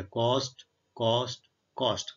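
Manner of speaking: ਕਾਸਟ said as kost three times, the same each time; pronunciation drill. Shown as a demonstration. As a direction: repeat ਕਾਸਟ as kost, showing it never changes. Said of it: "ਉਚਾਰਨ ਵੀ ਤਿੰਨਾਂ ਦਾ ਕਾਸਟ ਹੀ ਹੁੰਦਾ".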